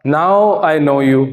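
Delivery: slow, weighty hero delivery; dramatic punchy hero lines. Shown as a demonstration. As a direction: drag it out like a film hero. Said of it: "फिल्मी dialogue".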